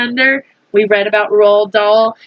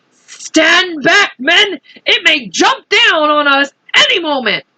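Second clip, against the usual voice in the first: warning; 7 semitones higher than usual. Acted. Police chief warning his men.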